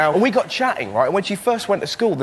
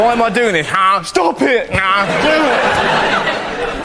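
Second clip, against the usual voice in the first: mock inner debate; 5 semitones higher, 4 dB louder, much slower than usual. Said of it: "when you kinda go".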